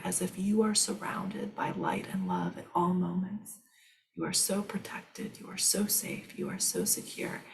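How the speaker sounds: soft, hushed meditation voice; guided reassurance whisper. Acted. Guiding reassurance.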